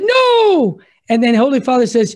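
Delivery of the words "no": high shouted no; crowd shout. Retold or imitated. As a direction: cry it out like a crowd. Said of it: "all the people said".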